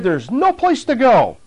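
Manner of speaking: demon voice. Retold or imitated. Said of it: "And the voice said".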